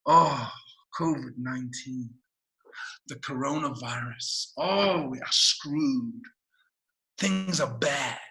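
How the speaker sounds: slow, low, resigned groaning; gloomy morning dread. Acted. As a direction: sigh and sink into despair. Acting out a gloomy waking thought.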